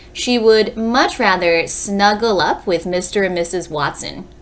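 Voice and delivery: storybook read-aloud for a class; reading to children. Acted. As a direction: read the blurb aloud to young listeners. Reads book blurb to class.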